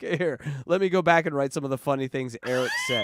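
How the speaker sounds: mock shout. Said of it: "I'm like".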